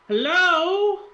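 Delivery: high, drawn-out Russian greeting; put-on Russian woman's hello; beautiful Russian voice. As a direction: call out high and loud in a Russian accent. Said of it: "in a beautiful Russian voice".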